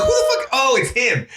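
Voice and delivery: jumps way up in pitch, a mock double take; mock surprise. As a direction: act out a startled who-is-that, then the recognition. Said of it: "I'm like".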